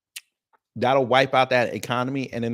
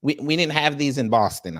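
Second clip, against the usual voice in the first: clumsy attempt at a Boston accent; bad Boston accent. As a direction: try a Boston accent and miss. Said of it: "That's a bad accent".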